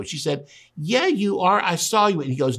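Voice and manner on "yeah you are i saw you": higher-pitched retold accusation; lightly acted girl insisting she recognizes him; mock insistence. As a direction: pipe up, pressing the accusation. Girl accusing Peter, retold dialogue.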